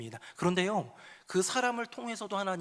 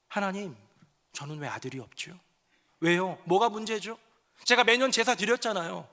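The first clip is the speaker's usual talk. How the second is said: complaining lament; 4 semitones higher, 3 dB louder than usual. Acted. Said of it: "하는 한탄과".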